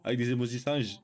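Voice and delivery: halting English in a thick French accent; English insult read out, French accent. Real, not acted. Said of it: "mon accent est pas ouf".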